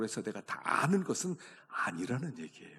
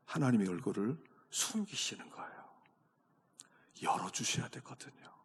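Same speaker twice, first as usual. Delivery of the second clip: whisper; 3 dB quieter than usual. Real, not acted. Preacher whispers.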